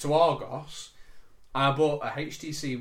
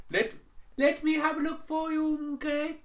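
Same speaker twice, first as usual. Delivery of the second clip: much higher put-on Indian call-centre accent; imitated Indian accent; 13 semitones higher than usual. Speaker imitating the call-centre agent on the phone, put-on Indian accent. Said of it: "we try and work out my accent properly".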